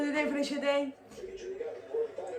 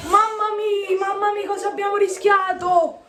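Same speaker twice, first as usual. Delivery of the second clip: alarmed; 4 semitones higher, 4 dB louder than usual. Real, not acted. Fan after near miss.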